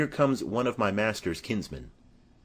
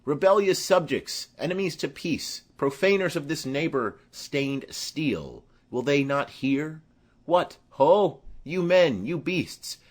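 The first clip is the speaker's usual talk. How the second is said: prince's rebuke; 3 semitones higher than usual. Acted. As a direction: command the rioters to halt. The Prince stopping the riot.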